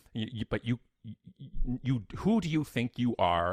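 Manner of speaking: acted indignant manager confronting a customer; halting start, then an affronted outburst; indignant challenge. Manager challenges the rude customer, retold.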